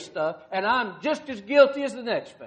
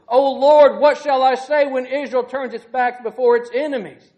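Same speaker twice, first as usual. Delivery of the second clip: a man fallen on his face begging the Lord; desperate loud prayer; 5 dB louder than usual. Acted. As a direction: cry out to God, loud and pleading. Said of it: "Joshua falls down and he says to God".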